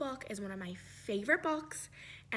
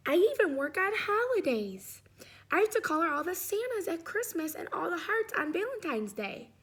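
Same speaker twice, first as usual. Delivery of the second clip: overworked red crayon; 4 semitones higher than usual. Acted. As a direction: whine that you need a rest. Red Crayon's letter read aloud.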